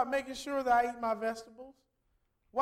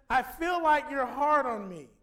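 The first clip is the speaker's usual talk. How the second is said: put-on slow, hurt voice of a boy; a lightly voiced sulky kid; son's complaint; 5 dB louder, slower than usual. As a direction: voice his son complaining from the back seat. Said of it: "He says".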